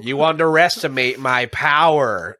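slow, laughing hammy villain line; stilted old movie melodrama. Retold or imitated. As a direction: ham it up like a prequel villain. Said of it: "cheesy acting aside".

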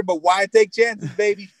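slow, drawn-out tagline; tagline delivery. Pretend. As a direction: sell it like a TV slogan. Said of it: "That's my tagline".

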